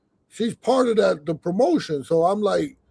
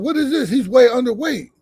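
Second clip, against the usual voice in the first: commissioner's outrage; 5 semitones higher, 4 dB louder than usual. Retold or imitated. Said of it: "The commissioner was like".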